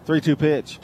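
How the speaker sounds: rising radio baseball call; play-by-play call. Acted. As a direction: call the play live, building.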